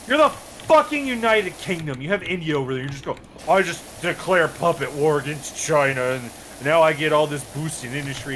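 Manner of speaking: high, incredulous retold rant; mock scolding the UK player; high exasperated disbelief. Berating the British player.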